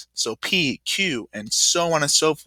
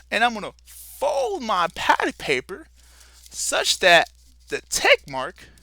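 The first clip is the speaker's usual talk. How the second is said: a lightly put-on Southern frontier accent, pitched higher; frontier drawl; 5 semitones higher than usual. Teacher playing Davey the frontiersman for the class, loose Southern accent. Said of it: "my accent is going all over the place".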